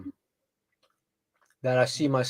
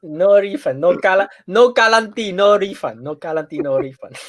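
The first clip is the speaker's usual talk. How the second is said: put-on Asian accent; 4 semitones higher, 6 dB louder than usual. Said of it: "I'm gonna say it in the Asian accent".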